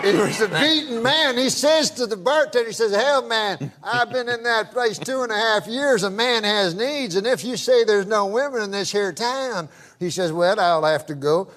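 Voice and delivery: lightly voiced country old-timer; hint of a Southern good old boy; good-old-boy storyteller. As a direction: spin it out as a folksy yarn. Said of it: "I can tell by the accent".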